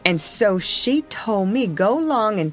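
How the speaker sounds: lightly voiced Jim, wary and reluctant; a hint of young Jim, nervous of Old Missus; Jim, dutiful slave boy. Jim refusing Tom's request to fetch water, lightly voiced and reluctant.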